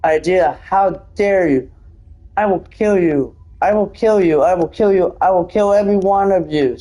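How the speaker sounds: mildly theatrical threat, each phrase falling; hammed-up vow of revenge; acted strange voice. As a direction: read the threat out dramatically. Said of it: "the strange voice that it says".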